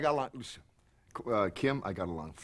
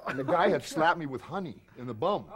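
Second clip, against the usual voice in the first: ordinary delivery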